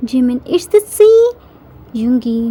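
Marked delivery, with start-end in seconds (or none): 0.6-1.2 high, louder burst of delight; excited exclamation. A narrator's reading. Jimin seeing the sea from deck, thrilled exclamation. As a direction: exclaim it with rising wonder.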